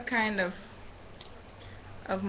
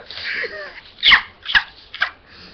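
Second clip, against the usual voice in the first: breathy muffled laugh; 7 dB louder than usual. Real, not acted. Laughs with mouth full.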